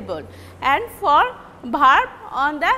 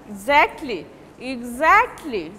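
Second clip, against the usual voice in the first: "exactly" with a strong, lengthened ZACT; stressed syllable; 5 semitones lower than usual. Shown as a demonstration. Teacher demonstrating stress, ZACT punched in "exactly". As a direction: hit the middle syllable of "exactly". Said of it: "you are giving stress on the".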